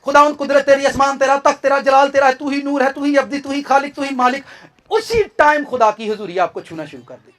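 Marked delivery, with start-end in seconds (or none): 0.1-4.4 demo of praise prayer. Shown as a demonstration. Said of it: "सिर्फ पन्द्रह लफ्ज हैं आपके पास प्रेयर के".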